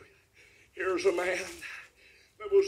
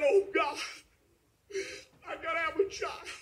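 hushed, far softer pleading; imitated tearful plea; 5 semitones higher, 7 dB quieter than usual. Preacher voicing Hannah begging God, hushed tearful plea. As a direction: voice Hannah's prayer very quietly. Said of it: "There was a woman crying".

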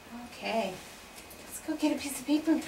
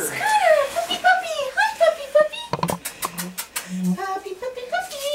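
calling a dog; 11 semitones higher, 4 dB louder than usual. Real, not acted. Calling the puppy over.

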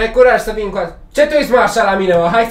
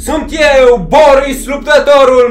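loud, drawn-out ring introduction; boastful fighter introduction; 3 semitones higher, 4 dB louder than usual. Pretend. Boxer Boris presenting himself at his first match, loud boastful announcing. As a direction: announce yourself like a prizefighter.

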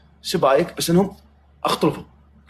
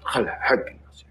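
whisper; 5 dB quieter than usual. Real, not acted. Aside to the side.

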